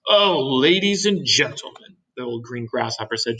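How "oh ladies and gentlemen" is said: higher, louder formal address over hidden fear; suppressed fear. A narrator's reading. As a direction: address the company, holding dismay back. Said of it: "trying very hard to keep a f-, fear and disappointment out".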